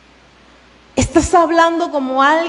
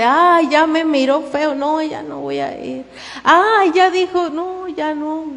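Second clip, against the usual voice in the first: mock offended whine, sighing "Ay"; a lightly voiced oversensitive soul; whiny touchy person; 2 semitones higher than usual. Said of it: "Que por todo se siente". (queja exagerada de persona sentida)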